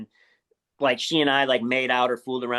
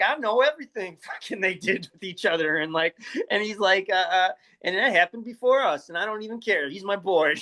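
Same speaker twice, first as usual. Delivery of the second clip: smooth; 3 semitones higher than usual. Retold or imitated. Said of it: "Corp was just super smooth".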